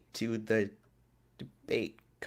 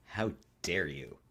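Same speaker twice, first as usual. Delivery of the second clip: mock outrage. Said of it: "mock outrage at GM request".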